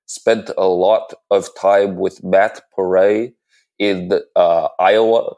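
lightly voiced senator oratory; a hint of a pompous senator, hand pointing; Bernie Sanders impression. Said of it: "Senator Sanders impression".

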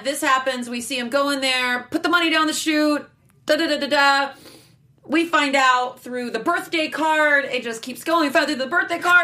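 mock-suspense recap, pitch climbing; building it up. Real, not acted. Host recapping the blackmail reveal, building it up. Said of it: "I'm building it up again".

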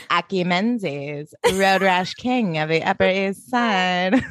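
put-on slow, smug rich-boy drawl; low-key posh villain flattery; Rex voice. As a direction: lay on the charm slowly, a lightly voiced preppy heir. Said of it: "doing my Rex voice".

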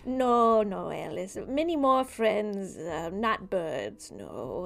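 slow, coaxing otherworldly voice; sinister dream figure. Acted. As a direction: purr it like a creepy stranger.

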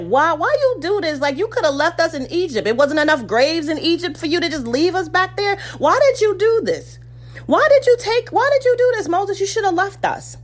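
mock-frantic crowd crying out; complaining Israelites. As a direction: plead with Moses, then shout at him.

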